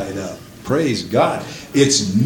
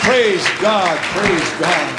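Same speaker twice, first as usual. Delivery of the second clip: praise winding down; 6 semitones higher, slower than usual. Real, not acted. Winding down after shouted climax.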